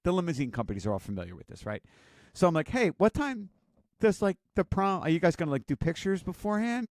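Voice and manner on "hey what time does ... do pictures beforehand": bright questioning pitched way up; chirpy mom quizzing her son about prom; high upbeat mom voice. Retold or imitated. Mom eagerly quizzing her son on prom plans, high and chirpy.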